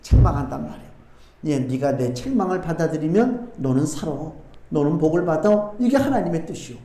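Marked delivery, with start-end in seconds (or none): 1.4-5.7 lower, gentle reproof; mildly voiced father correcting his child; fatherly admonition. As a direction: counsel a child softly, pitched down. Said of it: "아비가 자녀를 책망하는 마음으로".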